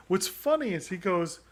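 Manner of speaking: ordinary talk, nothing marked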